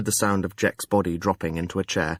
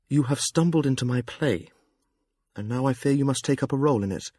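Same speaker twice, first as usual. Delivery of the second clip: lightly voiced, no Jamalian accent; a gentler, lighter persona; Amber's lighter voice; 3 semitones higher than usual. Amber explaining herself to Jekk, lighter voice. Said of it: "lighter and devoid of any Jamalian accent".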